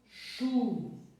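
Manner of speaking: "chu" loud and drawn out; stress on chu. Shown as a demonstration. Teacher isolating the strong syllable for pupils, loud stressed "chu". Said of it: "é a sílaba tônica".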